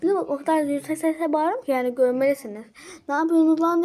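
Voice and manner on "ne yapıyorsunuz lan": mildly louder mock shout; telling off the troublemakers, half-hearted yell; retold yell at the kids. Girl yelling at the kids bothering her little sister, mock shout. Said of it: "diye bağırıyorum".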